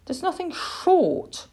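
encouraging, lifted tone; kindly. A narrator's reading. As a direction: offer a small comfort. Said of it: "the cat said kindly".

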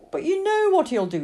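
put-on high, loud child's objection; distressed protest. Lily protests about what the vet will do, high distress. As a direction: protest in dismay.

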